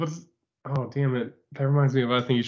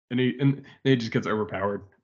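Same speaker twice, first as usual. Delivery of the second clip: usual speaking voice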